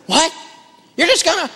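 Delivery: high-pitched mock disbelief; flabbergasted collector. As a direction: imitate a collector sputtering in shock. Imitates the shocked collector sputtering.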